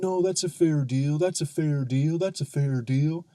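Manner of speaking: mock chorus of defenders, pressing the point; guys butting in. Guys all jump in to defend the deal, mock insistence.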